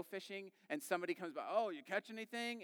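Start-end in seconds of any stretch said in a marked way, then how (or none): 1.5-2.6 lightly voiced chirpy passerby, pitched higher; a casual, higher-pitched question to a stranger; nosy passerby. Passerby to someone fishing, lightly acted nosy interest.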